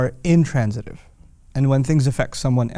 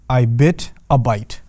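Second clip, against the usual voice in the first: slow demo; 2 semitones lower, slower than usual. Shown as a demonstration. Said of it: "it'll sound something like this in English".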